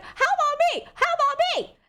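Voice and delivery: high, pleading put-on voice, repeated; whiny mock plea. Jealous sibling asks relatives about herself, high whiny plea. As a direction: beg like a jealous kid. Asking relatives for baby stories.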